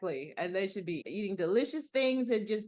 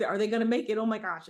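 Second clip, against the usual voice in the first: mildly hammed-up anxious outburst, louder; mock suspense; 2 semitones higher, 5 dB louder than usual. Reader fretting over action heroes' survival, mock suspense. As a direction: play-act being on the edge of your seat. Acting her suspense while reading thrillers.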